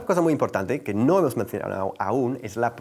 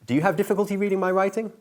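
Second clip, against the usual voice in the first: acted question; 8 semitones higher, faster than usual. Teacher acting a question in dialogue.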